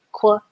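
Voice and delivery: quilt said slowly, each sound apart. Shown as a demonstration. Teacher modelling quilt for young spellers. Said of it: "I has the I sound in this word".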